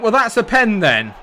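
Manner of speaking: ordinary talk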